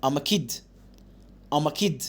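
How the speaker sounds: quick and contracted; fast reading. Shown as a demonstration. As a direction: say it fast, "I'm" joined. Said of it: "بسرعة". (قراءة سريعة)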